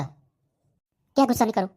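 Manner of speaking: drawn out, slow mocking repeat of the advice; slow sarcastic anger; slow angry echo. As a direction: stretch each word in disbelief. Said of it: "गुस्सा मत कर".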